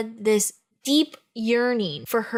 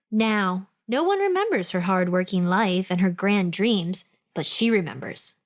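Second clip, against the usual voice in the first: lower, dramatic book-blurb narration; blurb read; 3 semitones lower than usual. Acted. Podcast host reading the ghost story blurb, dramatic narration. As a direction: read it like a movie trailer teaser.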